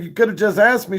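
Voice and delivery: hammed-up outrage; high mock protest at the nurse; mock indignant. Retold complaint to nurse.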